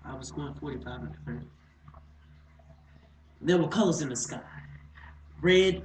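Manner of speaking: theatrical recollection with deliberate pauses; dramatic monologue. Acted. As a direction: paint the scene, lifting the energy as it goes. Monologue narration.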